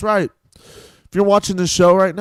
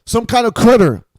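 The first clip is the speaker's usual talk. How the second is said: critter voice; 5 semitones higher, 6 dB louder than usual. Acted. Mocking caller as woodland creature.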